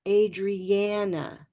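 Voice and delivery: Adriana slow, stressed middle syllable with the black cat vowel a; black vowel take. Shown as a demonstration. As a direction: draw out Adriana with a flat a as in cat. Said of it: "I'm going to model both of these".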